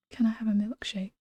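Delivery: soft unvoiced whisper. Real, not acted. Streamer whispering to chat about the crying girl, hushed. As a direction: whisper it so nobody outside hears. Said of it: "speaking low enough for you to hear".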